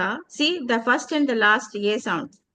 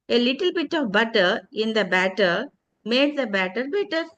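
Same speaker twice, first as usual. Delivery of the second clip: tongue twister demo. Shown as a demonstration. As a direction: recite the tongue twister steadily. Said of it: "some tongue twister with the sounds".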